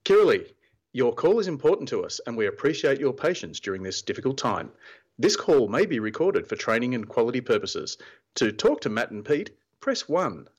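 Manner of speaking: automated call-centre hold message; phone menu voice. Pretend. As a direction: read it like a recorded phone menu. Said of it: "That's not how I answer the phone".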